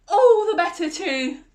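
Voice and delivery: high, loud mock growl; hammed-up loud wolf reply. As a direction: boom it back like the wolf. Wolf about to pounce.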